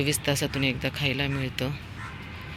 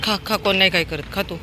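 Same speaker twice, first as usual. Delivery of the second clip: coaxing pet talk; 5 semitones higher than usual. Real, not acted. Coaxing dog to eat.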